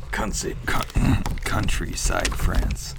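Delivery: reading a stage line in French accent. Shown as a demonstration. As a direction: say France the French way. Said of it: "It doesn't have to be in a French accent".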